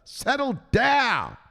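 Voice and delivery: high, drawn-out settle down; laid-back Robbie. Retold or imitated. Robbie calming panicked Zelensky, high slow soothing voice. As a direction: soothe him, stretch the last settle down slowly. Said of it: "Robbie said".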